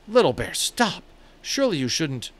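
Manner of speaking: high, loud cry to stop; boy shouting at Little Bear to stop; shocked protest. A narrator's reading.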